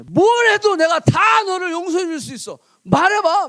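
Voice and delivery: a father pleading loudly for the truth; urgent fatherly plea. Retold or imitated. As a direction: press the son to speak, voice rising. Father urging son loudly.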